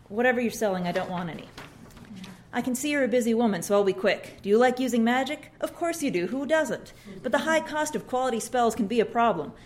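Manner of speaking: lightly voiced chirpy sales pitch; a hint of a bright door-to-door seller; pushy saleswoman. Ashley pitching a spell to a tired mom, chirpy sales voice.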